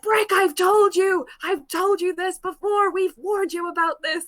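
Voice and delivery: a hint of a fed-up policeman; scolding officer. Policeman scolding Brick on the ship, lightly put-on stern voice.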